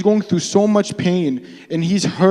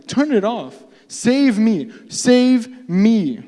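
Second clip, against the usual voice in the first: high, acted-out cry for rescue; desperate plea; 6 semitones higher, much slower than usual. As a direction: beg to be saved, each plea separate. Acts out begging God for rescue.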